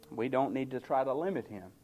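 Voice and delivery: ordinary delivery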